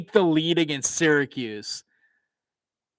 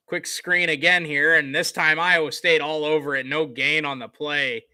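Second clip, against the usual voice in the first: live play-by-play; 2 semitones higher than usual. Acted. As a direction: call the return like a TV announcer. Calls the game play-by-play.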